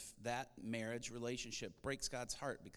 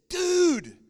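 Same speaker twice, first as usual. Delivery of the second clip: loud, much higher burst of alarm; excited shout; 22 dB louder than usual. Retold or imitated. Carlos running upstairs to the pastor, shouting it loud and high. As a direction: blurt it out at full volume, way up high. Carlos runs up wide-eyed.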